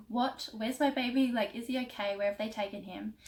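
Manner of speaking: retold panic. New mum retelling asking staff where her baby is, panicked. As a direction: replay the moment you realised the baby was gone. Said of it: "starting to freak out".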